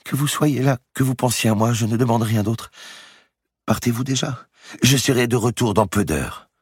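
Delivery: put-on high, gentle voice of a sick girl; frail young woman. A narrator's reading. Sick girl pleading with Guccio to stay, frail. Marie's voice in story.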